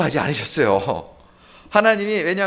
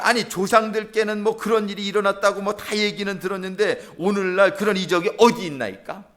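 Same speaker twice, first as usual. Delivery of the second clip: mildly argumentative complaint; Gideon; 3 semitones higher than usual. Acted. Preacher as Gideon asking where today's miracles are, challenging. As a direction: question God like someone feeling shortchanged. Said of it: "막 따지는 거예요".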